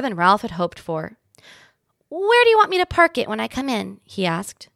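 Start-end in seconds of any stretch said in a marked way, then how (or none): 2.1-4.0 high and louder, eager little mouse; a tiny rider asking where to park. A narrator's reading. Ralph asks about parking.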